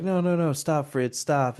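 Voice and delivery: mock protest. Acting out her first protest.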